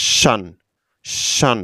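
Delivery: শান as a quick 'shan', between 'shian' and 'shon'; in-between pronunciation. Shown as a demonstration. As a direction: model শান alone, one syllable, said twice. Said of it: "দুটি শব্দের মাঝামাঝি একটি উচ্চারণ".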